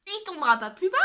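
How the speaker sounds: said through real laughter; laughing. Real, not acted. Vlogger to viewers, after dipping a finger in the lipstick, laughing. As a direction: laugh your way through the words. Laughing at her own clumsiness.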